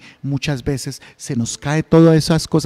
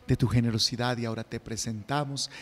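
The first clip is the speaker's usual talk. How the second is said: lower, measured priestly prayer; liturgical prayer; 3 semitones lower than usual. Acted. Priest's offertory prayers at Mass.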